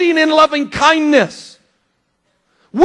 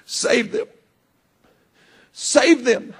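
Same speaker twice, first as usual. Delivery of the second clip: silent inner plea; 7 dB quieter, slower than usual. Retold or imitated. What I wasn't saying was in my heart.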